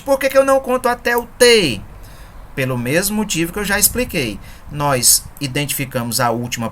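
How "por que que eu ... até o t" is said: raised, louder curious question; imagined student question. Retold or imitated. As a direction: voice the puzzled student asking. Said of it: "Talvez você pergunte". (pergunta imaginada de aluno curioso)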